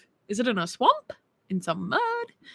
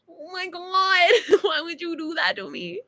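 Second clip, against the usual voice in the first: high, slow mock-crying whine; drunken wailing; 7 semitones higher, slower than usual. Drunk girl replaying her protest to the guy, drunken mock wail. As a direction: drag it out as a drunk, tearful wail. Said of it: "I think I was just really drunk".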